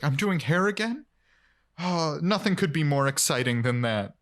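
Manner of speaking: mildly imitated excitement, rising on the question; excited. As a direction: act lightly thrilled about a job. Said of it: "really excited to be doing hair again".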